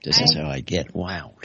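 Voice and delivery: usual speaking voice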